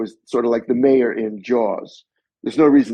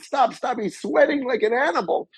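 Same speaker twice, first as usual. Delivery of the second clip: much higher, fussy voice of the crew member; imitating the assistant, much higher; mock disgusted assistant; 12 semitones higher than usual. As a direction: stop the take in disgust. Assistant halting the take.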